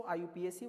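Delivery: आईयूपीएसी spelled out letter by letter as I-U-P-A-C; wrong pronunciation. Shown as a demonstration. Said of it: "वो बिल्कुल pronunciation गलत है".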